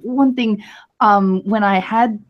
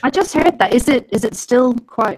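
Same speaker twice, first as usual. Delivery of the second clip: low sample rate; 4 semitones higher than usual. Real, not acted. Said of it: "you're a little bit underwater".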